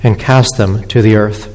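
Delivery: measured, solemn public Bible reading; scripture reading. Acted. Preacher reads Revelation to the standing congregation, measured scripture reading. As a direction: read it out to a standing congregation, phrase by phrase.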